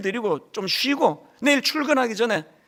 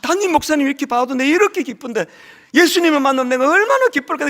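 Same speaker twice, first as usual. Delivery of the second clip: mock excited cry; 4 semitones higher, 4 dB louder than usual. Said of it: "막 소리 지르면서".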